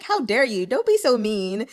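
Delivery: a touch of playful scolding; lightly mock-outraged telling-off; mock indignation. Reader scolding the prince for covering Li Yu's mouth, mock indignant. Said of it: "I was like".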